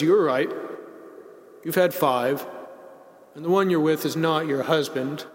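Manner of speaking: mildly gentle, measured correction in a retold dialogue. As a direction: confirm it kindly, with unhurried pauses. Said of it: "our Lord very gently says".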